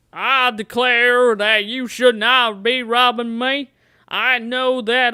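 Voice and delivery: slow, lightly voiced Southern colonel; a terrible, half-hearted Colonel Sanders drawl; Colonel Sanders impression. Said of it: "is that your Colonel Sanders impression? That's terrible".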